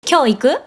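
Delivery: casual question, pitch up on 行く; rising intonation. Shown as a demonstration. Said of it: "we just raise the intonation at the end".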